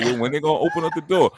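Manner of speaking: quick, high, impatient waiting outside; retold impatience. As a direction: rush it like someone stuck outside.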